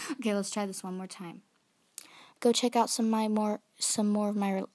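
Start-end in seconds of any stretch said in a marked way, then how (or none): 2.4-4.7 louder announcer read; commercial announcer voice. Pretend. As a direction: pitch it like an ad. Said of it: "sound like a commercial person".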